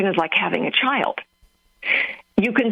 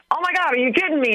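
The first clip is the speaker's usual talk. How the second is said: quick, higher-pitched mock alarm; panicked inventor; 6 semitones higher, faster than usual. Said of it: "walk through the panic attack".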